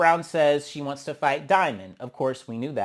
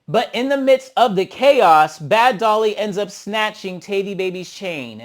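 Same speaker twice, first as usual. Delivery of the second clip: higher, louder and slow; dramatic reveal; 4 semitones higher, 8 dB louder than usual. Real, not acted. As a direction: drag out the big twist. Dramatic narrating of chain snatch.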